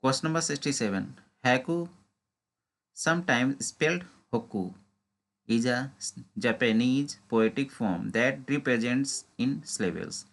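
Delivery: slow, deliberate reading of an exam question. Acted. Teacher reading a quiz question to exam students, slow and deliberate. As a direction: read each word out carefully, like dictation.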